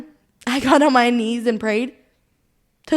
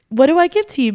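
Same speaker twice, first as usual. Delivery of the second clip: higher and louder on the repeat; the plea breaks through the second time; tearful repeat; 5 semitones higher, 5 dB louder, faster than usual. Real, not acted. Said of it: "getting emotional".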